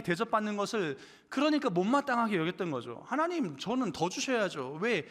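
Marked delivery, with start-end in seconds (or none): 3.1-5.1 mildly indignant plea, pitched up at the start; resentful protest. Acted. Late-coming worker demands more from God, mildly resentful protest. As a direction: act out a touch of aggrieved protest. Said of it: "못마땅하고 마음의 분노가 치밀었던".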